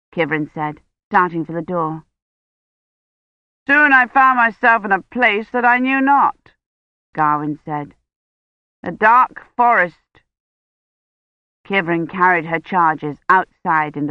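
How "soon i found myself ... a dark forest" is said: louder, dramatic knight voice; boasting knight. Acted. Gawain tells of the dark forest, dramatic. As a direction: build the mystery. Gawain continues his tale.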